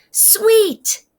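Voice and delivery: put-on high, bright exclaim of a small girl; delighted child. A narrator's reading. Little girl tasting honey, high delighted cry. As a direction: squeal it with delight.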